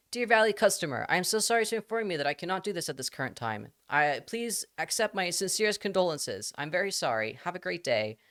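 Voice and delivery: high-pitched, effusively formal apology; hammed-up customer-service condolences; over-apologetic Japanese Alexa. Shown as a demonstration. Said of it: "Japanese Alexa".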